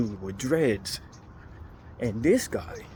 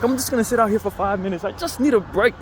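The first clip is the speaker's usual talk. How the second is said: put-on weary old lady voice; 8 semitones higher than usual. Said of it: "She was like".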